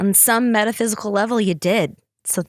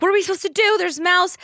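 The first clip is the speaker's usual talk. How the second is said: high-pitched imitated panic; mock a helpless, panicking mother; squeaky, worked-up alarm; freaking-out mom; 9 semitones higher, much faster than usual. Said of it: "she's freaking out".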